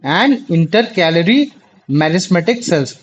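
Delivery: words stretched out one by one; slow dictation. Real, not acted. Tutor finishing the dictated question, very slow. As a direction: spell it out slowly for writing.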